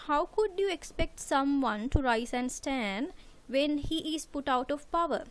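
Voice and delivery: normal talking voice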